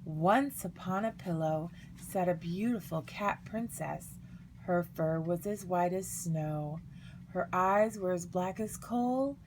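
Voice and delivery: quiet, measured bedtime-story narration; reading aloud to children. A narrator's reading. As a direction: read gently to little ones, a touch hushed. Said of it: "had begun reading to the girls".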